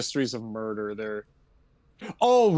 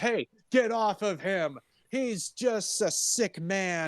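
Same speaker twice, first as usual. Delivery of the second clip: higher put-on voice, slowing to a drawn-out plea; Scarlet Witch pleading; 6 semitones higher, slower than usual. Woman telling attacker to get off him, mock pleading. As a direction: plead in a mock-distressed high voice.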